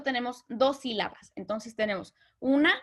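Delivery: ordinary talk, nothing marked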